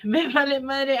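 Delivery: Me vale madre tossed off with a laugh; laughing shrug-off. Shown as a demonstration. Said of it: "repeats the phrase laughing".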